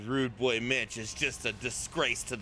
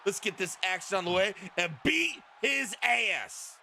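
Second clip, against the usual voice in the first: live ring announcer call; 4 semitones higher than usual. Real, not acted. Commentator introducing the tag team champions, announcer style. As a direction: announce the champions, building to the last line.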